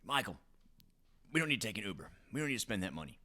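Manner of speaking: lightly imitated Southern accent; mild mock Southern accent. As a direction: quote your spouse with a hint of a Southern accent. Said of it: "this is my southern accent".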